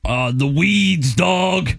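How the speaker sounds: slow lazy stoner drawl. Pretend. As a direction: play a dopey stoner. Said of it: "makes weed sound not cool".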